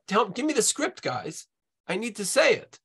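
high-pitched paraphrase of a desperate plea; lightly acted exasperated appeal; mock pleading. Lecturer voices woman's plea colloquially.

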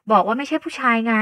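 loud, indignant denial; cross insistence. Acted. Sister slapping brother's arm to stop him, cross. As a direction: insist forcefully to shut him up.

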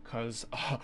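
high and loud, half-laughing disbelief; incredulous rant. Retold or imitated. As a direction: rattle off the questions like it's a prank.

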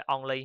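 "only" with the short on vowel, marked as wrong; wrong pronunciation. Shown as a demonstration. A teacher demonstrates the wrong way to say only. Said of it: "sai á".

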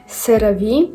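CeraVe said "se-ra-VEE", with an S; variant pronunciation. Shown as a demonstration. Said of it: "всі говорять по-різному".

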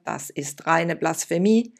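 shouting. Acted. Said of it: "schrie er".

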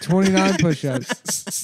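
slow taunting. Real, not acted.

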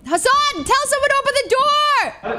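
high, urgent call. Real, not acted. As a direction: call across to a teammate for help. Calling to teammate for help.

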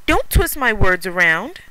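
loud, slow angry retort; Mickey angry. Acted. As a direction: snap it back, slow and loud. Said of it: "Here is Mickey".

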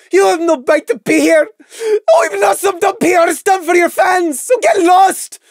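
high, loud, tearful yelling; angry outburst. A narrator's reading. Lily ordering the celebrity out, furious tearful shout. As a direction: shout her out of the room.

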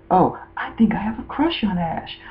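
high, soft imitation of a girl confessing; mock girlish confession. Fan fiction Dawn admitting her crush, mock high and soft.

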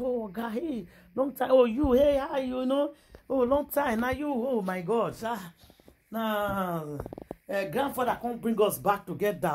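put-on high, excited greetings to an old friend; old friends shouting greetings at a reunion, thrilled. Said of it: "They just dey shout".

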